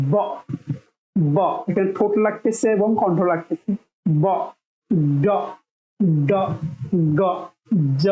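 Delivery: ব ড গ জ each said with a buzzing voice; voiced sounds. Shown as a demonstration. Teacher demonstrating voiced consonants with throat vibration. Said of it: "দেখেন এখানে হাত দেন".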